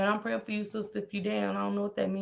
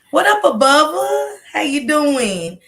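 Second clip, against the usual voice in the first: much higher, louder greeting; light up for the guest; excited shoutout; 8 semitones higher, 10 dB louder, slower than usual. Real, not acted. Greeting a content creator on stream, high and loud.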